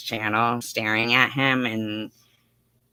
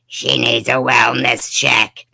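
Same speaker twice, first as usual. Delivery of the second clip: changed voice; 4 dB louder, slower than usual. Pretend. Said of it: "I've changed Morgan's voice".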